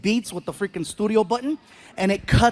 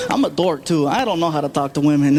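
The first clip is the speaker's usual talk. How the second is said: usual speaking voice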